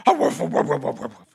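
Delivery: woof heartily, then trail down; dog barking. A narrator's reading. Dog tries crowing for the rooster, hearty woofing. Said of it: "And the dog".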